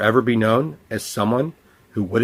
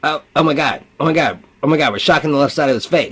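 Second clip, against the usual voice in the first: taunting voices; 4 semitones higher, faster than usual. Pretend.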